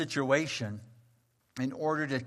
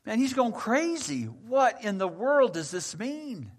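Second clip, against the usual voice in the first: higher, louder, rattled questions; agitated confusion; 5 semitones higher, 4 dB louder than usual. Acted. Perplexed Peter frets about eating reptiles, high and agitated. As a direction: sputter in disbelief. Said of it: "Peter was inwardly perplexed".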